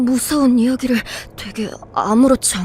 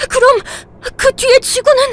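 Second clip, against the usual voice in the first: high, loud, tearful cry of alarm; shocked dread; 10 semitones higher, 9 dB louder than usual. Acted. Told Earth will die, crying out in alarm. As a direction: voice breaks at the news.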